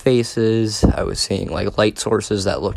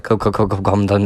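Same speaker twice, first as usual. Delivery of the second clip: echo stutter. Retold or imitated. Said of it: "it sounds like".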